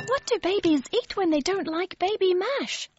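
Mary asking her brother what babies eat; Mary puzzled. A narrator's reading. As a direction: wonder it aloud, puzzled. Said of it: "asked Mary".

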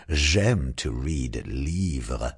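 slow, lightly voiced dragon. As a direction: savour each word. Douglas's voice.

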